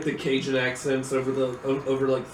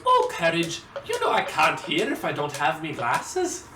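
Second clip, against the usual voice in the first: Scottish Muriel. Retold or imitated. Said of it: "she goes".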